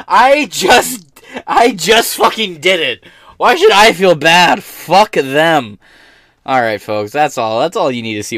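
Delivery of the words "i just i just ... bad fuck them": mocking Soros voice. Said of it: "mocking Soros again".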